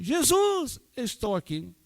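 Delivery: high shouted Jesus, then dropping back; shouted call. Retold or imitated. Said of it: "só orava assim".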